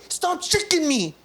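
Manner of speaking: high, slow squeaky plea; put-on little voice, drawn-out protest; protesting penis voice. Playing a penis being shaken, high mock protest. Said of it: "He's like".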